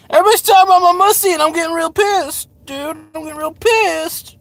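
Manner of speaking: high, loud mock-angry whine; silly high voice. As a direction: squeal it out like a cartoon brat. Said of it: "I don't know why I said it like that".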